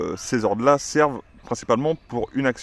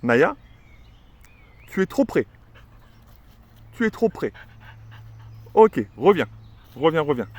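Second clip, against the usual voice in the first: higher, urgent calling; high call to the dog; 4 semitones higher than usual. Shown as a demonstration. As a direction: call the dog back, pitch climbing. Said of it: "je pourrais aussi lui dire tout simplement". (appeler la chienne d'une voix aiguë et pressante)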